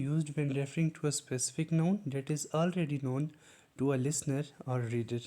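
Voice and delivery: very slow, word by word, like dictating a definition; slow dictation. Shown as a demonstration. Teacher reading the definition slowly to students. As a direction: spell it out slowly for the class.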